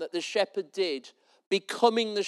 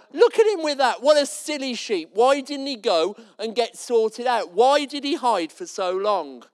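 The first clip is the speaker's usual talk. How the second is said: mocking scorn; 2 semitones higher than usual. Congregation mocking the shaggy sheep.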